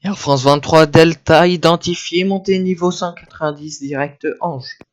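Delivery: crisp radio phraseology, controller voice; air traffic controller. Acted. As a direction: read it like tower radio. Controller gives climb clearance.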